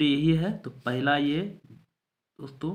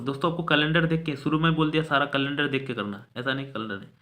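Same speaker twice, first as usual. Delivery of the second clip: louder, faster insistence to the class; firm reminder; 2 semitones higher, 5 dB louder, faster than usual. Real, not acted. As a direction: press the point hard, quickly. Teacher insists students use calendar. (ज़ोर देकर, तेज़ और ऊँची आवाज़ में)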